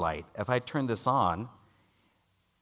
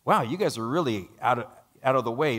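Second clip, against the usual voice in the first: surprised hiker; 2 semitones higher, 5 dB louder than usual. Retold or imitated. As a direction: exclaim like a helpful stranger amazed they wandered off. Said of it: "And he goes".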